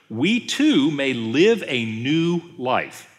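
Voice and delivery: slow, weighty Bible reading; deliberate preacher reading scripture; emphatic scripture reading. Acted. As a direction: proclaim the verse in measured, stressed phrases. Reads scripture aloud emphatically.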